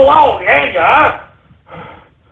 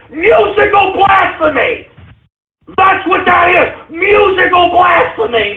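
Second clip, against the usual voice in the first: angry shout; 4 semitones higher than usual. Real, not acted. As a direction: yell it in outrage. Host ranting at mashup call.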